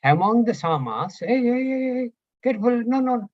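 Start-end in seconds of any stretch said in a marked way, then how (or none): 1.2-3.3 high urgent call to stop someone; sudden warning. Real, not acted. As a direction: cut in sharply, hey hey hey.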